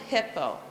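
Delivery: HIppo, first syllable pressed down; stress on hippo. Shown as a demonstration. Teacher showing the accent on hippo. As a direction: say hippo with the weight on HIP. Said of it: "So hippo was the example".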